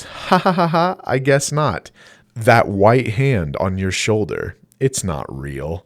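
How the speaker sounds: put-on eerie ghost child, slow and chilling; creepy little girl's voice. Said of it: "I will assume rather creepy little girl's voice".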